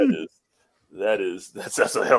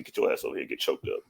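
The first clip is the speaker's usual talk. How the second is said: whispered taunt; 11 semitones lower, 9 dB quieter than usual. Retold or imitated. Voicing Asuka's taunt.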